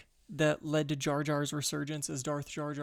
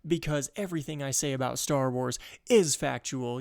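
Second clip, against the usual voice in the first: mock arrogant rant; 5 dB louder than usual.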